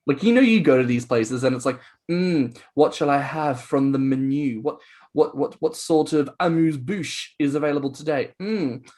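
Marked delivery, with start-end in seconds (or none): 2.1-8.9 lightly voiced gourmet pondering the menu; mock fine diner. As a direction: muse over it with pretend refinement, lifting the pitch at the end. Plays a fine diner ordering snacks.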